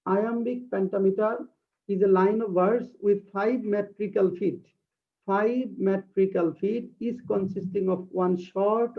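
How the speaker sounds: very slow, deliberate reading of a definition; slow dictation. Shown as a demonstration. Teacher reading a definition aloud to her class, slow dictation. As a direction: read it word by word for students to copy. Reads English definition slowly.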